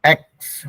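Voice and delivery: "एक्स" said as one sound, eks; pronunciation demo. Shown as a demonstration. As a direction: pronounce the spelling E-C as "एक्स". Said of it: "हो जाता है वो".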